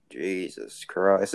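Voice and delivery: very slow "Jesus Christ", each word stretched out; mock-stunned, drawn-out exclamation; stunned disbelief. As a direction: let "Christ" hang in amazement. Reacting to boyfriend's remark.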